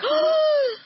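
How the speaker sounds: high sharp gasp of shock. Retold or imitated. Watching her friend rip out Bible pages, a shocked gasp.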